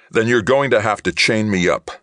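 snarled. A narrator's reading. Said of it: "Johnny snarled".

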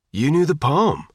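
a touch of wonder in the voice. A narrator's reading. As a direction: marvel at her a little. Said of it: "Todd said wonderingly".

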